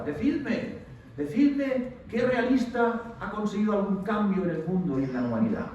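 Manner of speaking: mock rousing speech to a thousand teenagers; strong-voiced speaker. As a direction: copy the lecturer's strong rousing voice. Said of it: "hablaba así con voz fuerte".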